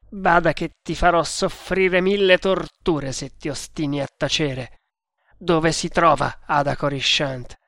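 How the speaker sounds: understated angry threat; furious. Acted. Tremal Naik threatens the prisoner with torture, furious. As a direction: threaten him with controlled fury. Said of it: "disse Tremal Naik furente".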